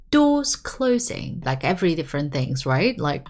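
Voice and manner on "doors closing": higher, slow door announcement; drawn-out public notice. Shown as a demonstration. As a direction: announce it like a train operator. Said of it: "When you're announcing things".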